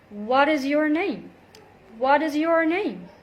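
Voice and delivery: what is linked as "wadis"; linked flap T. Shown as a demonstration. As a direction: run what is together with a D flap. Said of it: "we link the words together".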